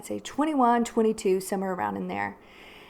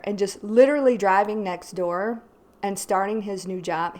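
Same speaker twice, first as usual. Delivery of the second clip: normal talking voice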